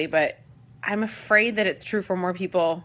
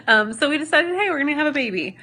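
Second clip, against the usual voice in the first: excited; 8 semitones higher, 5 dB louder than usual. Retold or imitated. Retelling excited decision.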